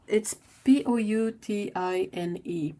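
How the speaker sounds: each letter of P O U T I N E said clearly; spelling it out. Shown as a demonstration. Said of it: "Do you pronounce the N?".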